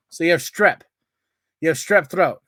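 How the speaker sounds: mock-irritated comeback; exasperated retort. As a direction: throw it back at them, unimpressed.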